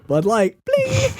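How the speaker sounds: high, slow hammed-up brag; hammed-up product boast; mock Martin Lawrence. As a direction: stretch it out like a showy plug. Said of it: "And he's like".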